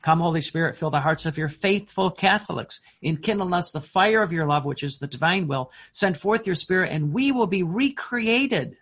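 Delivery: prayer recited with rising fervour; fervent prayer. Acted. Priest leading the Holy Spirit prayer, fervent and building. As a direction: lift the prayer up as you go.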